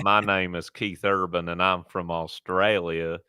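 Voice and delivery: light mock Australian accent, slowing at the end; a hint of an Australian accent, played for laughs. Podcast host mimics a singer, light mock Australian accent. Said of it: "let me do my Australian accent".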